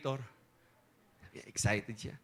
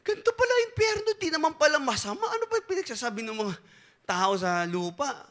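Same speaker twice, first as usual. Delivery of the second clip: delighted surprise; 6 semitones higher than usual. Acted. Politician delighted by hell.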